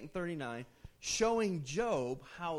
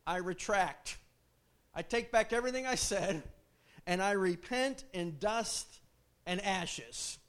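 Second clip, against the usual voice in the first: repentant Job; 3 semitones higher, 4 dB louder than usual. Retold or imitated. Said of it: "this is Job".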